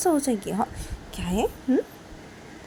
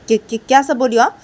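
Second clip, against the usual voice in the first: much higher and louder outraged questions; shocked angry teacher; 7 semitones higher, 10 dB louder than usual. Acted. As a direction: shriek your disbelief. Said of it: "तो तभी रेशमा तो".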